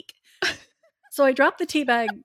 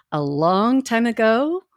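grave ancient myth telling. Acted. Slow dramatic story opening.

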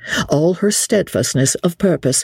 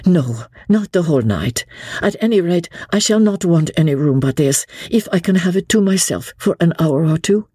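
higher, composed noble lady; lady Marguerite; 6 semitones higher than usual. Acted. Lady Blakeney instructs the innkeeper, poised and earnest.

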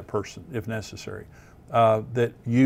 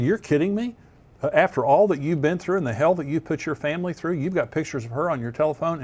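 higher-pitched retold disbelief; incredulous confrontation; 4 semitones higher than usual. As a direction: confront him, voice lifted in incredulity. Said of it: "I confronted him on it".

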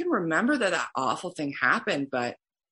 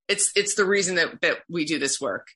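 choked up. Real, not acted. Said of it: "Sorry, I'm getting emotional".

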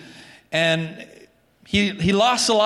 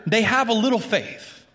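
higher, tender voice of Jesus; a lightly voiced Jesus, higher and gentle; 4 semitones higher than usual. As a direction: speak it like a patient rebuke. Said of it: "He says, rather".

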